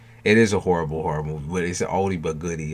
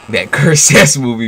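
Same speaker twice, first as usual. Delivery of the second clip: loud outburst; 6 semitones higher, 15 dB louder than usual. Real, not acted. Exclaiming about the horror film.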